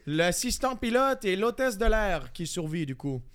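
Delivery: imitated French-from-France accent; accent français de France. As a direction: narrate like a mock Frenchman, in accent. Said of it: "j'ai chié l'autre avec l'accent français". (faux accent de France)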